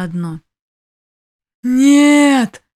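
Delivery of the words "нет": much louder, higher bellow; an imp bellowing in despair; roaring. A narrator's reading. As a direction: roar the denial in grief. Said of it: "взревел бес".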